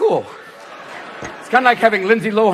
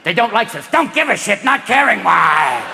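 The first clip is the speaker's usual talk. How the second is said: Gollum. Retold or imitated. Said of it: "turning slowly but surely into Gollum".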